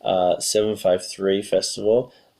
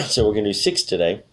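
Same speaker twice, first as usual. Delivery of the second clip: losing her voice, a bit hoarse; hoarse, voice giving out. Real, not acted. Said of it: "I'm losing my voice".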